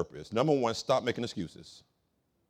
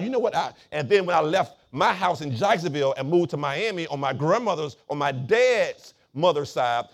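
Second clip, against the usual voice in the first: animated preaching; 3 semitones higher, 6 dB louder than usual. Real, not acted. Preaches with rising force.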